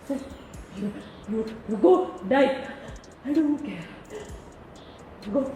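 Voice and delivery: soft, broken and slow, nearly crying; letting go of him through tears; choked disowning. Real, not acted. Daughter disowning father, choked. (തകർന്ന ശബ്ദത്തിൽ അച്ഛനെ തള്ളിപ്പറയുന്നു)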